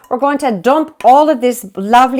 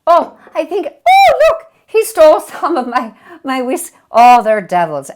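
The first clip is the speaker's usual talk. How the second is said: laughing mock outrage; 3 semitones higher, 6 dB louder than usual. Leprechaun stole her whiskey.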